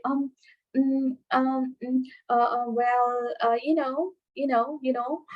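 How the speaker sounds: hesitant filler pauses. Shown as a demonstration. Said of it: "without stopping or stammering, uh, taking pauses".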